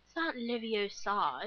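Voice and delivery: lightly voiced prim Hermione, slow "Leviosa" with stress on "o"; Hermione Granger quote. Quoting Hermione's correction in class, lightly mimicked. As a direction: correct it like a know-it-all. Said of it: "Hermione Granger saying".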